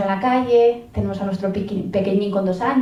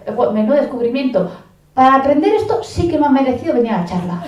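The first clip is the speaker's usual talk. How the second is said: sarcastic listener; 3 semitones higher, 4 dB louder, faster than usual. Retold or imitated. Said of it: "Y dices".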